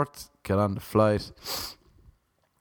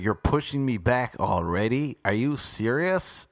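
imitating irate seatmate. Retelling the seatmate's complaint on the plane, put-on indignant voice. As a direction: mimic the rude passenger's whiny outrage. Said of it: "He's like".

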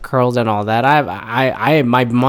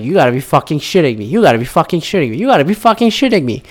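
can't believe what he hears, faster and climbing; incredulous; 2 semitones higher, faster than usual. Retold or imitated. Viewer reacting to Trump's speech, incredulous and fast.

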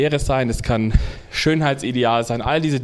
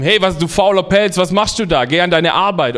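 higher, louder foreman barking orders; angry foreman; 5 semitones higher, 5 dB louder than usual. Acted. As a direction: chew out the lazy worker. Foreman yells at the bear.

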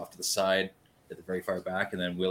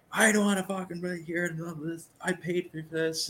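entitled ranting; 10 semitones higher than usual. Retold or imitated. Retelling an irate big guy's complaint, entitled rant. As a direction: go off like an entitled complainer, much higher. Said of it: "starting to just, just going off, like, so entitled".

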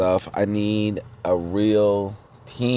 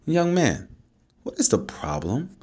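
concerned dad; 8 semitones higher than usual. Retold or imitated. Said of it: "I'm a concerned dad".

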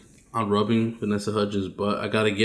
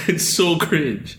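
laughing; 7 semitones higher, slower than usual. Real, not acted. Laughing about a bad movie.

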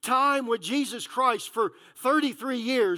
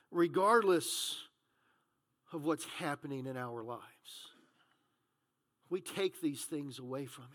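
low, soft preaching with long pauses; hushed preaching; 7 semitones lower, 7 dB quieter than usual. Real, not acted. Preacher explaining the Helper to the congregation, hushed and measured. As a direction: let each phrase settle quietly.

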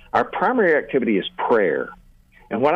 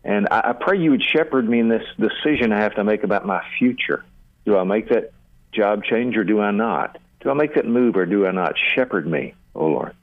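spoken prayer; 2 semitones lower than usual. Shown as a demonstration. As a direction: pray it sincerely, as if alone with God. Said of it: "you talk to God about whatever comes to mind".

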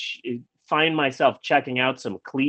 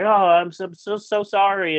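retold apology; 5 semitones higher than usual. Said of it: "she felt really bad".

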